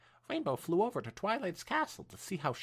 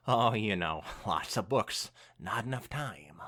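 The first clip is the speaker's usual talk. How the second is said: lower, sheepish excuse; guilty Twilight; 9 semitones lower than usual. Acted. Twilight dodging Rainbow's question, guiltily evasive. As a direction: brush it off with a guilty grin. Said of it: "Twilight smiled a guilty smile".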